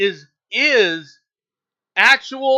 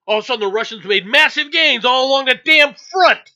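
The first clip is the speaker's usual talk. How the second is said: emphatic; 3 semitones higher, 6 dB louder than usual. Real, not acted. Angry point about intelligence cutoff.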